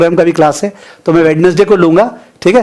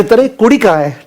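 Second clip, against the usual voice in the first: higher, eager surprised question; sudden surprise; 4 semitones higher than usual. Retold or imitated. Punjabi boy hears kudi and looks for a girl, surprised. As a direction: perk up, looking for the girl. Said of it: "लड़का अचानक से".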